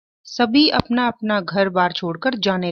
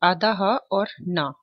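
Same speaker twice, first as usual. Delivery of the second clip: slow spelling out; slower than usual. Shown as a demonstration. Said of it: "देखिए चिन्ह कैसे लिखा जाता है".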